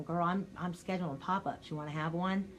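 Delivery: mention it without any excitement; understated, matter-of-fact invitation; unexcited pitch. Shown as a demonstration. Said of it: "So if you're sitting there going".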